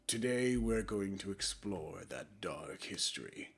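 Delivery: slow, hushed narrator voice; dramatic opening. Shown as a demonstration. Vlogger's mock-dramatic intro, slow and soft. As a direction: tease the dark history gravely. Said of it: "in a cringy attempt at a dramatic opening".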